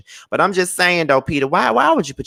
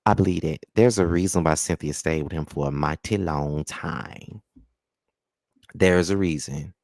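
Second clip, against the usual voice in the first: measured, slightly lower podcast-host voice; 3 semitones lower than usual. Pretend. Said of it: "let me put on my podcast voice".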